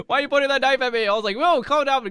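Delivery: high, loud, fast mock panic. Kid facing mom's knife, high mock panic. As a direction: plead with mom to calm down.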